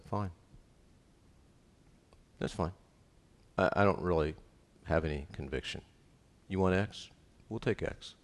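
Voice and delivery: a hint of a limp, soft-spoken husband giving in; defeated husband. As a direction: mumble it like a man with no backbone. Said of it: "and he'll say".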